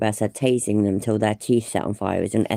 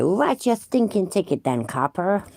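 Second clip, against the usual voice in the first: a higher, hammed-up sovereign citizen voice; mock Chili; 6 semitones higher than usual. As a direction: sneer it like a smug grifter mocking a cop. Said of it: "That's the kind of thing that Chili would say".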